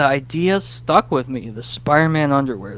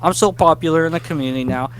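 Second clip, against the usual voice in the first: smug boaster; 3 semitones higher, faster than usual. Retold or imitated. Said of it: "someone random goes".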